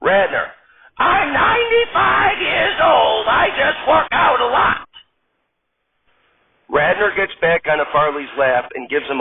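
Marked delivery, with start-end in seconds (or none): 1.0-4.9 high, slow, quavering granny voice; old lady voice. Acted. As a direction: play a sassy old grandma stripper.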